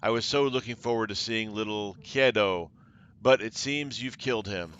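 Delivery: a light taunting edge; mock the commander, lightly voiced. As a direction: sorceress lightly taunting the commander over the boy. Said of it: "The woman's words carry a taunting edge".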